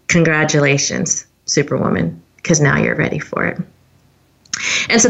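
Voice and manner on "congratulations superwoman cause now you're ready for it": low, composed congratulations; imitating a calm, knowing mentor. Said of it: "he very calmly said".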